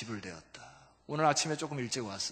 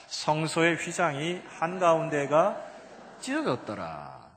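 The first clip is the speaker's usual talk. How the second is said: slow, louder measured recital; scripture reading aloud; 6 dB louder, slower than usual. Real, not acted. Preacher leading congregation in the verse, slow recital. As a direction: lead a group reading, word by word.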